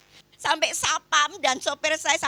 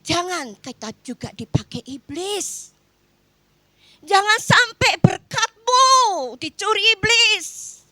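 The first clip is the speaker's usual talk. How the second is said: firm warning; 8 semitones higher, 7 dB louder, slower than usual. Retold or imitated. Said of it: "saya katakan".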